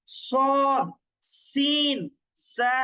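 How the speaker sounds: সদ, সিন, সা with drawn-out, whistle-like s and z sounds; whistling sibilants. Shown as a demonstration. Teacher drilling the sibilant letters, সদ, সিন, সা said with a whistling hiss. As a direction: articulate সদ, সিন, সা very clearly, one by one. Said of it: "একটু শি দেওয়ার মতো উচ্চারণ".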